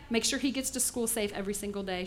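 whisper. Acted. Neighbor secretly plotting.

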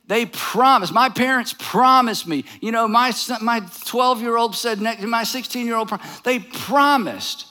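mock-aggrieved insisting, PROMISED leaned on hard; indignant protest. Arguer complaining to James about broken promises, indignant.

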